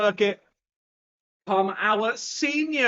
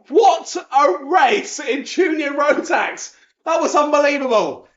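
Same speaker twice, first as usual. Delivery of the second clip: excited; 6 semitones higher, slower than usual. Real, not acted. Race just ended.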